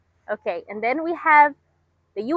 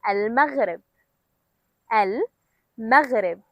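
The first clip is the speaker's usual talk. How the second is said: slowly; slower than usual. Shown as a demonstration. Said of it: "One more time".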